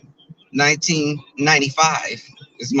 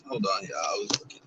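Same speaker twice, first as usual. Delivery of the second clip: whispered; 10 semitones lower, 12 dB quieter, faster than usual. Real, not acted. Distracted while driving.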